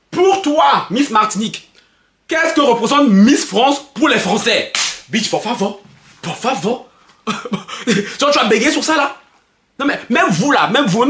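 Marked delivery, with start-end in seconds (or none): 0.1-4.7 slow, over-formal quoting of the question; mock host question. Vlogger mimicking the pageant host's question, slow and formal. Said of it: "c'était ça sa question".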